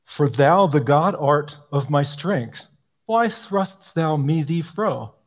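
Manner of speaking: slow, solemn reading of "thrustst thou me thee fro"; slow archaic recitation. Shown as a demonstration. Speaker quoting the clumsy old psalter wording, slow and grave. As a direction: read the old lines with deliberate weight. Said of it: "What did I just say?".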